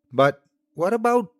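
desperate protest. Acted. Narrator protests, high.

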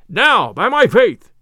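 loud, slow exclamation; crying out. A narrator's reading. Sheriff marvelling at the shot, crying out. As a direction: exclaim it slowly and strongly. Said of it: "cried the sheriff".

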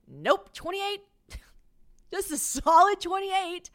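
high-pitched, stretched-out insistence; high defensive answer. Retold or imitated. Woman answering whether she lied about age, high insistence. Retelling her own age reply.

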